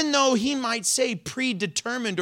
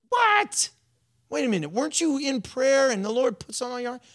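mocking retort; 6 semitones higher than usual. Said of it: "mocking Jesus answers".

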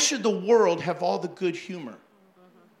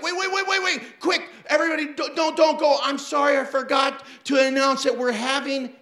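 calling out; 6 semitones higher, 3 dB louder than usual. Retold or imitated. Grabs mic, calling crowd back.

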